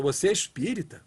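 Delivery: doubtful, reproachful asking; disapproving question. Shown as a demonstration. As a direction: ask it as if shocked by bad conduct. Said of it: "É a mesma pergunta". (pergunta desconfiada, em tom de reprovação)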